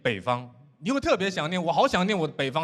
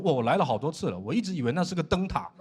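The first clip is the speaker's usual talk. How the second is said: put-on mildly jaded old seaman; numb, jaded. Second mate answers an excited intern about the volcano, jaded. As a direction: play it unimpressed, seen it all before. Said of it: "他对一切都很麻木".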